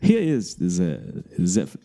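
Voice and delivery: slow, tentative German accent. Shown as a demonstration. Radio host starting to introduce a song, tentative German accent. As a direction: try out a German accent, drawn out. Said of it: "let's not do the German accent".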